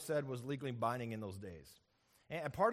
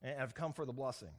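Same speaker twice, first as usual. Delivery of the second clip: lowered voice; 3 dB quieter than usual. Acted. Jacob to his blind father, faintly lowered disguise voice. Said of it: "he lowers his voice".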